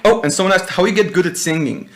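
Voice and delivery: ordinary talk, nothing marked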